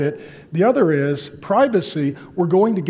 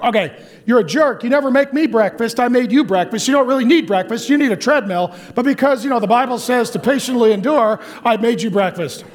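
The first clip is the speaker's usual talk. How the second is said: mock grumbling; 4 semitones higher than usual. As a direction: play the martyr spouse keeping score, half-joking. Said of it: "That's grumbling".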